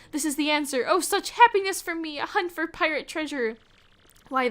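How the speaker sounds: lightly hammed-up Spanish accent, grand and theatrical; mock Spanish-accented Flavio. Spanish-accented trader boasts to Mario about treasure. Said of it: "I can't roll my R's".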